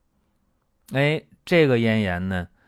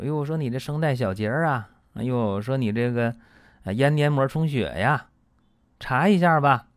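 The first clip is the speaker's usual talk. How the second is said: lightly voiced doctor, a bit higher and faster; breezy quoted doctor, pitched up; 5 semitones higher, 4 dB louder than usual.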